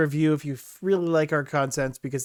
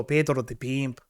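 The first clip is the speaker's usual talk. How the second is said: put-on Mexican accent; lightly voiced Mexican pimp persona; Pedro; 4 dB quieter than usual. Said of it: "I'm gonna bring back Pedro".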